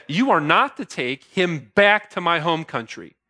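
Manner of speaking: firm stress on "not" and "back"; measured, insistent weight on "not"; emphatic. Retold or imitated. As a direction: come down hard on "not", then on "back". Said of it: "He's also emphatic about the issue".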